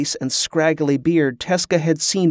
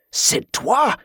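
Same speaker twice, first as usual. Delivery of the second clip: indignant shout; 9 semitones higher than usual. A narrator's reading. Pirate hears himself mistaken for Sidwa, indignant cry. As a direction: spit the name back in outrage. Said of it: "he shouted".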